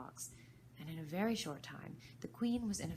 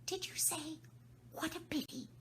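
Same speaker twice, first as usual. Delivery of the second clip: White Rabbit, high; 12 semitones higher than usual. Acted. Rabbit asks.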